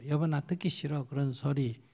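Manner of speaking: soft, plain statement to a spouse; calm honest refusal. Shown as a demonstration. Preacher models telling a husband softly she doesn't want to hear it. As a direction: say it gently and clearly. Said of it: "표현을 정확하게 해주면 돼요".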